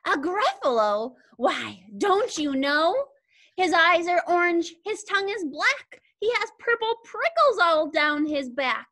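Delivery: lively storybook mouse, lightly put on; a hint of a mouse character; lightly voiced mouse. Mouse describes the Gruffalo to a predator, lightly voiced mouse. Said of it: "such an impressive mouth voice".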